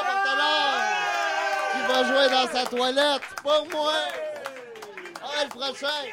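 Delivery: auctioneer calling out bids. Pretend. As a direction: run the auction, calling each bid. Runs a mock auction.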